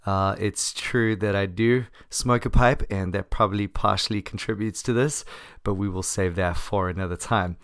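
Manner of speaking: hoarse from laryngitis. Real, not acted. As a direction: speak through a sore, hoarse throat. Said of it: "a sexy smoker's voice".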